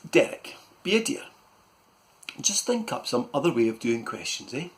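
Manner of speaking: Mum's voice. Acted. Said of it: "So Mum said".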